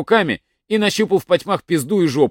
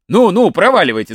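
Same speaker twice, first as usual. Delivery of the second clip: shouting them off; 4 semitones higher, 5 dB louder than usual. Acted. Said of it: "закричал мужик".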